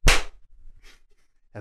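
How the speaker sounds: slap noise made with the mouth; slap sound. Acted. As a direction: smack out a hand slap sound. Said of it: "make a slap noise".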